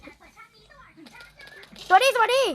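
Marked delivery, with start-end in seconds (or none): 1.9-2.4 loud, high-pitched hello, twice; called-out greeting. Real, not acted. Player calls a greeting to others in the game, calling out. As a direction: call out hello, higher and louder.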